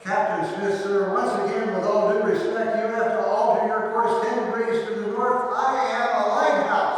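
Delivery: loud, high and urgent pleading; shaken plea. Retold or imitated. Private pleads urgently with the captain, loud and high. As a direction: beg him to turn before they hit. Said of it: "now really shook".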